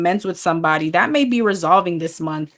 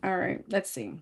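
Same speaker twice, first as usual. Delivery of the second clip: sleepy yawn through the words; 12 dB quieter than usual. Real, not acted. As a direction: say it mid-yawn. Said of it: "I'm yawning a lot".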